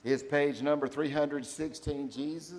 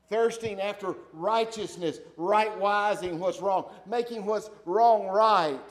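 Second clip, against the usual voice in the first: building emphasis; 6 semitones higher, 9 dB louder, slower than usual. Real, not acted.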